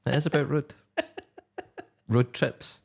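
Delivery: "road" with a short Scottish vowel; plain Scottish "road trips"; Scottish accent. Real, not acted. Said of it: "I have an accent".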